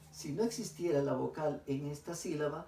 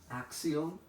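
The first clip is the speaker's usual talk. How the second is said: "acción" with more force on its last syllable "ción"; stress on final syllable. Shown as a demonstration. Teacher asks pupils for the tonic syllable, stressing "ción" in "acción". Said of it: "la sílaba que se ha pronunciado con mayor fuerza de voz".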